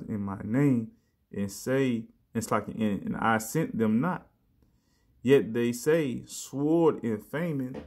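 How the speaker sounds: slow, stressed scripture read; slow down and weigh each word; emphasized reading. Shown as a demonstration. Preacher rereading verbatim to drive it home, slow emphasis. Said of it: "I'm gonna emphasize on the part".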